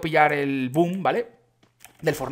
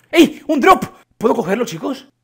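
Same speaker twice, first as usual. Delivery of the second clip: high, loud sudden exclamation; excited; 7 semitones higher, 8 dB louder than usual. Real, not acted. Gamer spotting a supply drop, excited shout.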